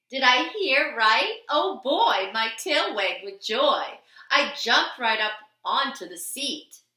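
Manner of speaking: a dog wagging with happiness; excited. A narrator's reading. Dog narrator bursting with joy at his new home. Dog's joy at being adopted.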